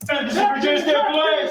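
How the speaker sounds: through a megaphone. Real, not acted. Police calling suspect out.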